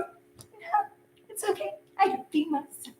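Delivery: high, whispered sarcastic brush-off; a breathy, mocking no thanks. Reader's imagined face refusing the ex, whispered sarcasm. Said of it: "Like, all sarcastic".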